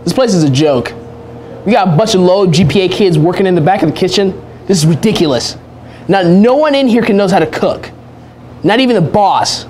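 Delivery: loud, high, exasperated tirade; angry rant. Acted. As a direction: rant like a fed-up chef. Chef ranting about the restaurant.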